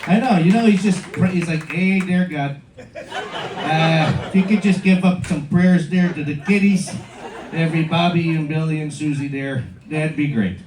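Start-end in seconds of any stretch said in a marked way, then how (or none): 1.7-10.6 lightly put-on Chicago accent. Pope from Chicago asking God for prayers, mild Chicago accent. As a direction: pray casually in a hint of Chicago accent. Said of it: "a pope from Chicago".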